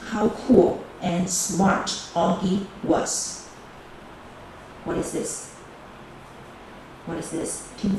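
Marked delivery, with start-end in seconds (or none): 0.1-3.5 slow, deliberate read-aloud of the phrase. Shown as a demonstration. Teacher reading slowly to students for analysis. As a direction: spell the phrase out slowly for the class. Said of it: "What is the part of the speech?".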